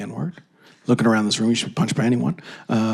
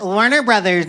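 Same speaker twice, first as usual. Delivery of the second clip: higher, shrieking brand name; mock squeaky shout; 6 semitones higher than usual. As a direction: yell it like a girl thrown out of a bar. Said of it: "sound like a white girl".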